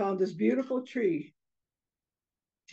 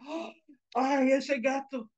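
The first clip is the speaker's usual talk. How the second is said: slow, higher gasped lament; shaken father; 5 semitones higher than usual. Acted. Father back home on the couch, shaken by the cat. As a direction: sigh it out after a bad scare.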